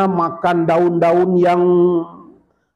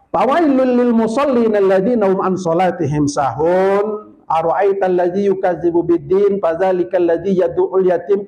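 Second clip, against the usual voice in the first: Quranic recitation; 2 semitones higher than usual. Acted. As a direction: recite the verses with tilawah melody. Reciting Quran verses in sermon.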